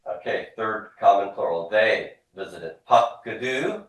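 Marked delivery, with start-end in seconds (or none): 2.9-3.8 higher pitch, lifting at the end; repeat-after-me model. Shown as a demonstration. Teacher leading a class drill, rising model word. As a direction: cue the class to echo the word. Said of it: "Repeat after me".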